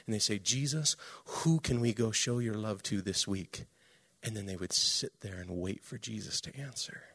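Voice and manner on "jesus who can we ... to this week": soft, low voiced prayer. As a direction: ask Jesus quietly, as in evening prayer. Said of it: "every night they would pray".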